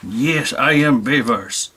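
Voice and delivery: slow, badly faked French accent; a failed attempt at a French accent; hammed-up French accent, slow and clumsy. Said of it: "I can't talk in a French accent".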